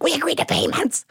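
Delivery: very high, squeaky wail; hammed-up crying voice; mock sobbing. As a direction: imitate protesting through sobs. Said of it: "I'm sobbing".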